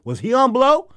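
high, loud punchline; incredulous question. Retold or imitated. Host wondering about the beaten champion, loudly incredulous. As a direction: jump up high in mock disbelief.

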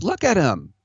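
high, amazed commentator impression; mocking announcer voice. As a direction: gush like a stunned TV analyst. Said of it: "and he goes".

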